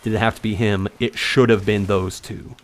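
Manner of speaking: understated cold retelling, little emotion; cold and calculated. Retold or imitated. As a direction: quote him coolly, without getting worked up. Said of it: "He was cold and calculated".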